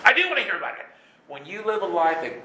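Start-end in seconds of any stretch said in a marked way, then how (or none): 0.0-0.9 high, emphatic "I do wanna"; insistent contradiction. Acted. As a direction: push "do" high, insisting you want it. Acted insistent reply to reluctance.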